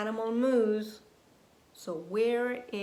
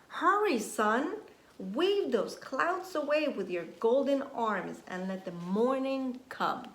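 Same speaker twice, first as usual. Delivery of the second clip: urgent pleading; 3 semitones higher, 3 dB louder than usual. Acted. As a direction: urge the sun to rise. Urging the sun in story.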